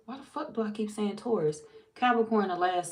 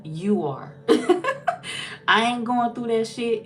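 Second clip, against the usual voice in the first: laughing defiance; 5 semitones higher, 6 dB louder, slower than usual. Real, not acted.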